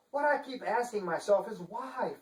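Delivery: high, prim lady voice; fussy Chancellor. Acted. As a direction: act the shocked, genteel Chancellor.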